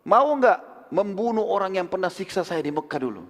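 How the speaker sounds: high, slow call to the Ansar. Acted. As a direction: hail them from afar, drawn out. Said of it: "Dia teriak".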